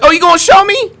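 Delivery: hammed-up tough cop; taunting cop. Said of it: "they'll be like".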